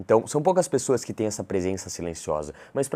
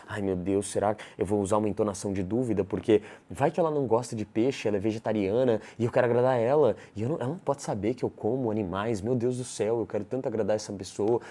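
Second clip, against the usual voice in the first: anxious inner voice; 2 semitones higher than usual. Acted. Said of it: "Na sua cabeça você tá".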